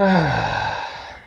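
long audible sigh. Real, not acted. Player let down by the game, exasperated sigh. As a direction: exhale hard, letting the voice out.

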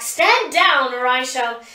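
commanding threat; stern threat. A narrator's reading. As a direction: order him down, cut off. Threatening the rogue in fight.

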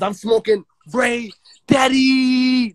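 slow braggy holler; drawn-out shout. Real, not acted. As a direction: stretch each word out, calling to the live chat. Hyping his own name on live.

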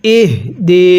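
slow ইহ দি with a breathed, sounded h. Shown as a demonstration. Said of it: "পড়ুন".

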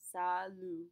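Salut said salu, no final T; silent final T. Shown as a demonstration. Teacher modeling salut for students. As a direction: drop the T. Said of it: "we do not pronounce that final T".

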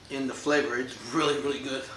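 chewing while talking; speaking around fingers at lips; mouth full of fruit. Real, not acted. Seen 0: Puts fruit to mouth and eats, fingers at lips 4.5–9.3.

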